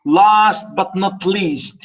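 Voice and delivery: "last but not least" with the L drawn out; slow, deliberate L in "last" and "least"; stressed L sound. Shown as a demonstration. Teacher showing students the L sound, slow demonstration. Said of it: "here the L sound".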